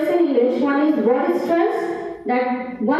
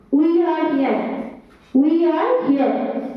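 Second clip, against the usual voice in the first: put-on slow, drawn-out Bengali-accented English; slower than usual. Teacher imitating how people from Bengal speak, Bengali accent. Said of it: "those who are Bengali accent".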